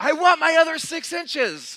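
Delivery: shrill, very loud, high-pitched yelling. Retelling hearing a lady yell out behind them in a sandwich line, imitating her yelling. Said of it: "I hear this lady yell out".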